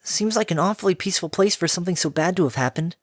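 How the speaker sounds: lightly high, curious filly; puzzled and teasing; young filly voice. Acted.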